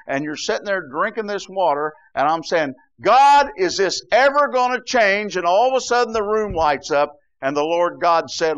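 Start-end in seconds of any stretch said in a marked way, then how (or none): 3.0-5.4 high, loud pleading cry; anguished cry to God. Retold or imitated. Preacher reliving his cry to God in India, loud pleading. Retold prayer in Indian heat.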